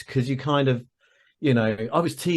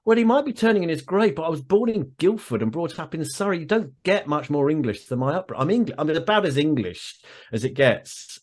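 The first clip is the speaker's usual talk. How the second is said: raised, quick protest back at mum; indignant retort; 5 semitones higher than usual. Retold or imitated. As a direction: push back hard, half laughing.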